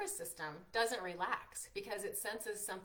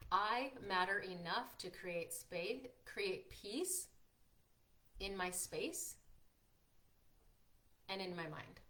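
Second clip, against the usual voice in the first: sincere affirmation; slower than usual. Shown as a demonstration. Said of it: "It's saying".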